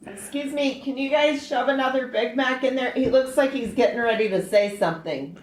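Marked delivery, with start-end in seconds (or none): 0.1-2.9 mock rude interruption. Mocking the quiet cohost.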